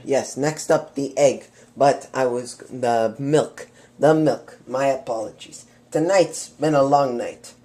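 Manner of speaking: a fake French chef accent. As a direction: play a hammy French chef. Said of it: "my French has faded".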